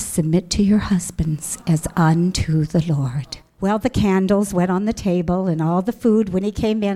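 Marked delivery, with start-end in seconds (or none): 0.0-3.4 low, slow, measured recitation; solemn scripture quote. Retold or imitated. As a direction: quote the verse with slow weight.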